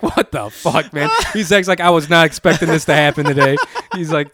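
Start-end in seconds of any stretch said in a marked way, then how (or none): 0.0-1.1 laughing disbelief. Retold or imitated. Friends crying with laughter, retold. 1.8-3.6 laughing disbelief. Retold or imitated. Retold friend dying laughing.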